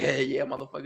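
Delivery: acted-out amused speech breaking into laughter. Retelling how the listener laughed during a ceremony: imitating someone laughing while talking. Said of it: "you were start laughing like".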